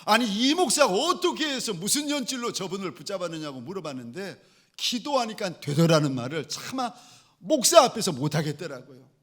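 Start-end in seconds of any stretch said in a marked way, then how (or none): 0.0-3.6 retold grilling. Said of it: "화가 나가지고 언짢아서 막 꼬치꼬치 묻는 거예요".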